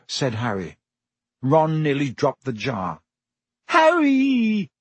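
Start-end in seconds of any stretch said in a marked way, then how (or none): 3.7-4.7 put-on high, louder squeal of a girl's name-call; excited squeal. A narrator's reading. Hermione squeals at finding Harry there, excited squeal. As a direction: squeal it out, much higher and louder. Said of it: "squealed Hermione".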